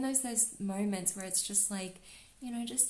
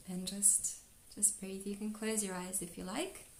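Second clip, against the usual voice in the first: soft calm voice; 4 dB quieter than usual. Real, not acted. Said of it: "I feel like my voice is even changing".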